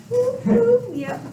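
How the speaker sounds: high playful whoop whoop. Pretend. Teacher playacting Kevin at his desk, playful whoop. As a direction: whoop like grooving to the radio. Pretending to vibe to radio.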